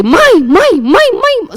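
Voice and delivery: high, swooping calls for mom; imitated nagging son. Mother voices her son's repeated texts, high insistent calling. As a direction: mimic a kid calling mother over and over.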